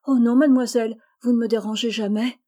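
une protestation vive et plus forte; s'empresser de rassurer; eager protest. Acted. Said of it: "s'écria Phébé". (protester avec élan)

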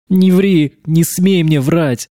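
a tearful sobbing outburst. A narrator's reading. Verena sobs into Alex's shoulder, accusing him of lying. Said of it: "всхлипнула Верена".

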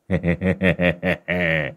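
soft sly chuckle in a rougher voice; a smug little laugh on entering; scarred man's laugh. A narrator's reading. Scarred man laughing as he walks in, soft sly chuckle. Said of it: "Lâm mặt sẹo đã cười".

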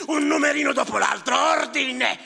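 loud outburst, pitch climbing; shouting for order. Acted. Clerk alone in his shack, yelling about order. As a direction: bark out the demand for order.

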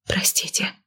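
hushed, whispery exhale; breathed apology. A narrator's reading. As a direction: let it out softly on a breath. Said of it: "выдохнула она".

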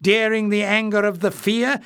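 furious retort. Acted. Clef hurling blame at Warren, furious and high. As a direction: retort in a fury. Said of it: "Clef retorted furiously".

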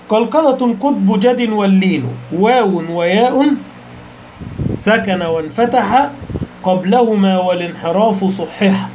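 slow, measured recitation of a poem line; slow verse recital. Shown as a demonstration. Teacher reciting a line of the poem to students, slow and measured. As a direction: recite the verse slowly, each word drawn out.

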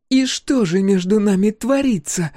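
high, loud, threatening question; menacing. A narrator's reading. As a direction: dare her to answer. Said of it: "спрашивает она с угрозой".

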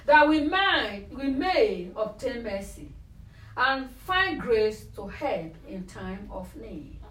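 slow, measured reading of the verse; scripture reading. Acted. Preacher slowly reading a Bible verse to the group, measured. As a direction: read the verse out slowly, weighing each phrase. Reads Hebrews 4:16 aloud.

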